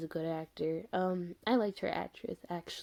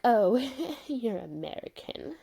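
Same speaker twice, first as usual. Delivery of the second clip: imitated stuck-up remark; 3 semitones higher than usual. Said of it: "very stuck up".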